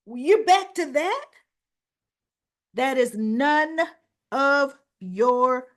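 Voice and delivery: high and loud, slow and indignant; slow loud indignant outburst; angry outburst. Retold or imitated. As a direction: hammer each word, furious. Retold soap quarrel, Sasha.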